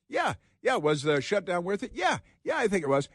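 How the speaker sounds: high, squeaky yeah-yeah parody of the senator; mock insincere agreement. Host mocking senator's answer to reporter, high sarcastic parody. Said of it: "He's lying".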